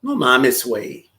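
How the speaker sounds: Mexican Spanish accent, "güey" dropped low; casual Mexican street accent; Mexican slang delivery. Shown as a demonstration. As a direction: say it like a Mexican bro. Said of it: "That's how they talk".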